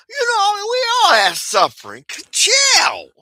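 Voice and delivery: high, loud pleading voice; exasperated plea. Retold or imitated. Telling jealous folks to chill, high exasperated plea. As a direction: throw up your hands and beg them to chill.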